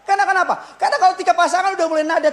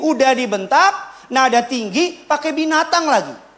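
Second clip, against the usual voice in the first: repeated with more force and volume; louder repeat. Shown as a demonstration. Preacher repeats the list to the congregation, louder and forceful. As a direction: drive the list home, louder. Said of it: "Kebayang nggak hancurnya istrimu".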